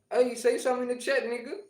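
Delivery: high, loud call to the chat; demanding call-out. Real, not acted. Streamer prodding a new viewer to type in chat, high demanding call-out. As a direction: raise your voice to urge a reply. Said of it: "shouldn't say it like that".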